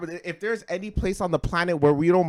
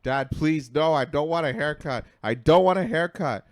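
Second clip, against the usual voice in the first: mock a child protesting desperately; retold child's frantic plea; hysterical child, imitated. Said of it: "the kid's hysterical".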